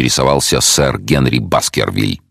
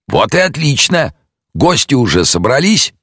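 detective, a touch higher and brighter; 12 semitones higher than usual. Acted. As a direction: voice the calm detective, lifted a little. Detective replies.

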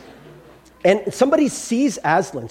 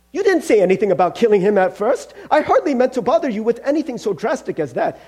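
higher-pitched, protesting ghost voice; flustered ghost; 5 semitones higher, 3 dB louder than usual. Acted. Ghost protesting the killing to the angel, flustered. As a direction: play a flustered ghost making excuses.

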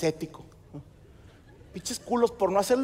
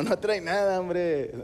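laughing doctor; much slower than usual. Retold or imitated. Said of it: "el vato riéndose dijo".

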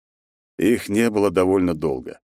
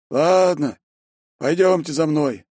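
resigned sigh; 9 semitones higher, slower than usual. A narrator's reading. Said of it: "обречённо вздохнув".

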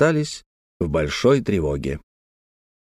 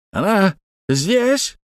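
high, drawn-out question of mild horror; horrified cry; 9 semitones higher, much slower than usual. A narrator's reading. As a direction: cry it out slowly, pitch leaping in dismay. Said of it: "в ужасе закричал".

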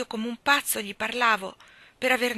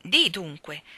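louder demand from the fairy; fairy cries out; 2 semitones lower, 5 dB louder, slower than usual. Acted. Fairy crying out at Ermanno, louder. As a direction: throw the challenge at him. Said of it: "gridò la fata".

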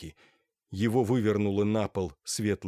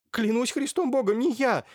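babbling; 4 dB louder than usual. A narrator's reading. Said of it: "лепетал несчастный".

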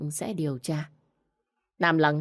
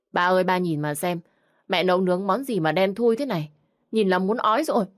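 loud complaint; 3 semitones higher, 4 dB louder than usual. Acted. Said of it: "Tiếng la lớn của con dâu".

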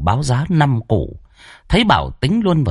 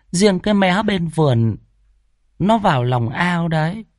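put-on high-pitched old granny voice, gossipy; old woman storyteller; 9 semitones higher than usual. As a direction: tell it like a village grandma spilling old secrets. (giọng bà cụ kể chuyện, cao giọng, rôm rả)

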